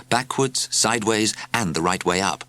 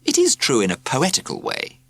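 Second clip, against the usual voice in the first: put-on proud young writer; 6 semitones higher than usual. A narrator's reading. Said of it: "he thought".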